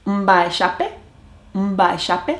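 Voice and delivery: careful Guarani greeting, repeated. Shown as a demonstration. Learner showing off Guarani to viewers, careful. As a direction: sound out the Guarani hello slowly. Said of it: "So I can say".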